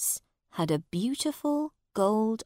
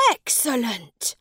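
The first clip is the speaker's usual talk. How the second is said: mildly pleased, a little higher; a touch of delight; happy prince; 4 semitones higher than usual. A narrator's reading. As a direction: answer happily, lightly raised pitch. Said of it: "replied the prince happily".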